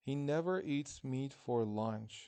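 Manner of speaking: slow, careful model sentence with never leaned on. Shown as a demonstration. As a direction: read it out slowly for the class to repeat.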